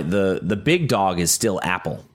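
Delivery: talking through a held-back yawn; stifled yawn. Real, not acted. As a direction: swallow a yawn mid-sentence. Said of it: "That was a good squelch of your yawn".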